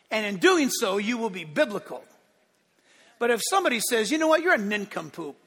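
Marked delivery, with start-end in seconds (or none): 4.1-5.4 nincompoop with the poop syllable punched; stress on poop. Retold or imitated. A preacher mimicking an insult with a hammed-up stress on poop. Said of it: "they stress the word poop".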